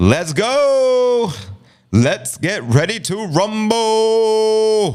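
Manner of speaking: very high, stretched "rumble". Greeting the audience, doing the rumble call in Michael Buffer voice. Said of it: "In my Michael Buffer voice".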